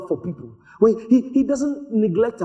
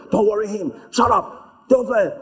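shutting him up. Acted. Jesus' protocol shutting up the blind man, brusque dismissal. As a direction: cut the beggar off curtly. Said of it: "protocol were shutting him up".

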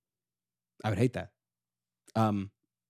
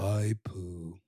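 Eeyore impression; 8 semitones lower, 8 dB quieter than usual. Shown as a demonstration. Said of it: "how did he sound".

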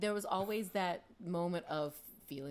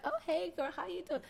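high-pitched imitation of a dude's come-on; mock flirty greeting; 13 semitones higher than usual. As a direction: play a guy chatting her up, pitched high. Acting out a flirting dude.

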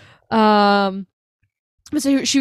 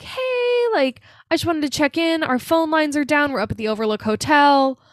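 higher-pitched retold caller, easing down; lightly voiced Wendy; 5 semitones higher than usual. Wendy radioing the forest ranger, lightly imitated higher voice. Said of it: "and she's like".

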